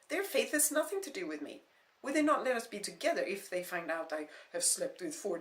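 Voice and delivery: loud defiant protest; angry defiance. Acted. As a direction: throw it back at him. Heated argument.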